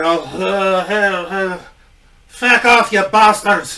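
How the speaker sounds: put-on slurring Scottish drunk cursing the crowd; mock drunken Scottish rant. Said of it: "drunken Scottish gimmick".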